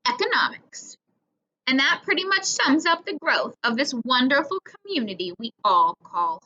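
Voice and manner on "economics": "Economics" whispered with correct syllables; whispered correction. A narrator's reading. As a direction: breathe "Economics" as a quick whispered fix. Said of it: "Mister Dalton corrected himself".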